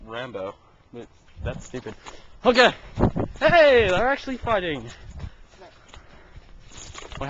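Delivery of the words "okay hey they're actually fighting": much higher, loud surprised yell; excited shout. Real, not acted. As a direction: call out in sudden excitement.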